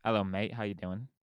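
British greeting that drifts toward Australian; amateur British accent, slightly Australian; attempted British accent. Shown as a demonstration. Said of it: "do you have a good British accent".

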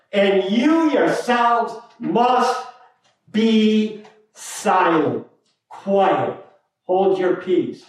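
slow preaching stress on you; emphatic you. Shown as a demonstration. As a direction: stress on you, drawn out slowly. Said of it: "that's an emphatic you".

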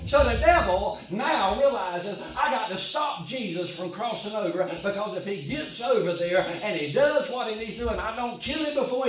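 driving, unbroken sermon delivery; forceful preaching. Real, not acted. Preacher warning the congregation hell will oppose them, forceful preaching. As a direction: preach it hard, phrase after phrase.

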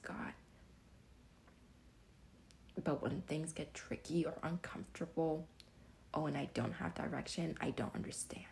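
soft unvoiced whisper, confiding. Real, not acted. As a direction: hush it like a private confession.

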